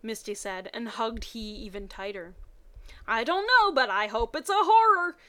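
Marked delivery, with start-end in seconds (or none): 3.1-5.2 evil grin. Acted. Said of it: "with an evil grin".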